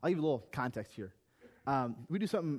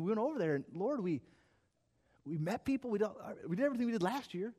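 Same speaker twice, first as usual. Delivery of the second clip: higher-pitched, worked-up protest; freaking out; 7 semitones higher than usual. Retold or imitated. Protesting to God over poor results, freaking out. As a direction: retell a frustrated plea, pitched up. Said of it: "freaking out".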